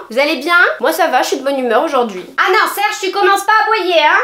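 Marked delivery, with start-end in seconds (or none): 2.4-4.2 higher mock scold to the dog; raised voice telling Serge to stop. Real, not acted. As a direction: tell the dog off, half-playful. Scolding the dog mid-video.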